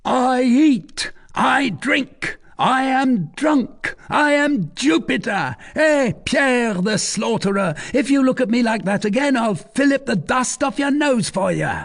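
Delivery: put-on high, loud drunken yelling; hoarse drunken shouting. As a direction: roar it out, half drunk. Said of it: "Jehan was shouting in a hoarse voice".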